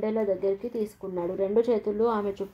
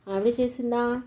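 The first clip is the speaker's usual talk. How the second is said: a light touch of surprise, slightly raised; mildly surprised; 3 semitones higher than usual. Acted. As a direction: ask it half-surprised, understated. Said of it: "ఆశ్చర్యంగా అంది". (కొంచెం ఆశ్చర్యంగా)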